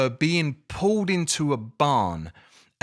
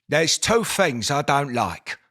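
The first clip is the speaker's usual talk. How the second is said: Austin Powers' dad; 3 semitones higher, 4 dB louder than usual. Retold or imitated. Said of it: "Austin Powers' dad hates the Dutch".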